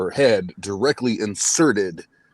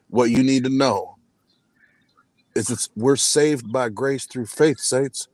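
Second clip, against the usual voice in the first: preaching; 2 semitones higher than usual. Acted. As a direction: preach to the congregation. Preaches to the saints.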